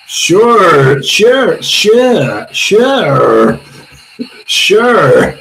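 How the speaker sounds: drawn-out American-sounding "sure"; mock American accent, repeated slowly; Americanized accent. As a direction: imitate an Americanized "sure", one at a time. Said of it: "in a sort of Americanized accent".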